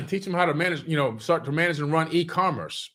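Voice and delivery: throat catching on smoke; clearing a scratchy throat; choking up. Real, not acted. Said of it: "I'm choking up a little bit".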